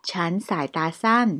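whispered translation; กระซิบ. Shown as a demonstration. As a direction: breathe it out without voice. Translation line said unvoiced.

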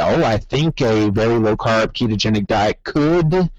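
"could" set apart at the end, then a pause; stress on could. Pretend. Voicing a cautious opinion for listeners, stress on "could". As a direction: land on "could" and hold off. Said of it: "that's the word".

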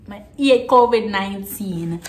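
Jamaican patois, "hate" without its h. Shown as a demonstration. Vlogger offering another translation, in Jamaican patois. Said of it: "translate this in patois".

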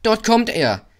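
high, loud excited cry; little boy's shout. A narrator's reading. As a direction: shout it out like a small boy. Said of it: "schrie ein kleiner Junge".

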